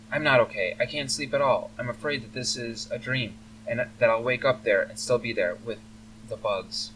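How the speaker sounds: lightly voiced, anxious elf girl; distressed elf daughter. Elf daughter confesses her nightmares to her rescuer, mildly distressed. Frightened daughter fears the bugs.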